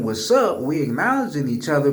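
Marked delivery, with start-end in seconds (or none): 0.0-0.6 in-group greeting. Shown as a demonstration. Explaining how his community says hello, familiar in-group greeting. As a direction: greet your own people with "What's up". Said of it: "So we saying".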